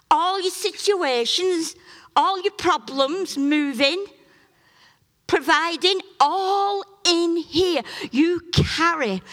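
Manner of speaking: high, loud, slow preacher's cry; preaching at full force. Acted. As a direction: drive it home to the congregation. Preaching climax.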